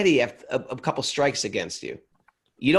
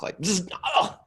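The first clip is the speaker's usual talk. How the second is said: mock shock buzz; 6 semitones higher than usual. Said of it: "gives me a little shock".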